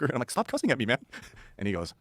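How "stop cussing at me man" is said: put-upon objection, acted for laughs; mock protest. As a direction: play yourself pleading with a rude alien, pitched up. Retold protest at cussing alien.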